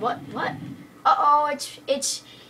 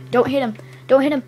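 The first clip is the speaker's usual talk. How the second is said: louder warning, DONT punched; urgent yell; 10 dB louder, faster than usual. Real, not acted. Player yelling at Brendan not to hit the creeper, loud. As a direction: stop him with a shout.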